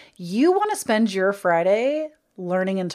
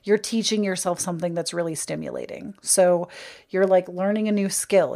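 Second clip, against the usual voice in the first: ordinary talk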